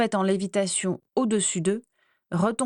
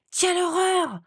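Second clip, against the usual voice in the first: a much higher, shocked wail; horrified cry; 10 semitones higher than usual. A narrator's reading. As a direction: cry out in genuine horror at the mirror. Sees her ruined hair in mirror.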